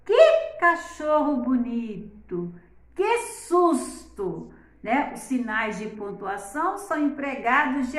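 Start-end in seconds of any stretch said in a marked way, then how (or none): 0.0-2.5 slowed, admiring "Que cachorro bonito!" with a falling end; exclamation. Shown as a demonstration. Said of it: "olha a entonação". 2.9-4.5 slow, higher "Que susto!" falling at the end; startled exclamation. Shown as a demonstration. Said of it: "olha a entonação".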